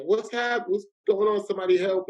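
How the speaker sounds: retold alarm, voiced high; alarmed wife. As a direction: raise the pitch, mildly panicked call for help. Retelling his wife's alarm.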